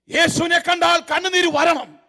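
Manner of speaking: usual speaking voice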